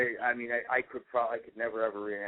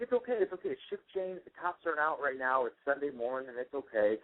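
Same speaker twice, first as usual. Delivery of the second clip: breezy daughter; 5 semitones higher than usual. Retold or imitated. Daughter voiced in retold story.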